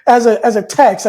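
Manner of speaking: amused laugh breaking in. Real, not acted. Telling the host about the surreal invite, laughing. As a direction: laugh at how absurd it seemed.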